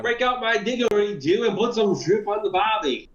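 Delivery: mock Australian accent. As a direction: ham up a bad Australian accent. Joking put-on Australian slang.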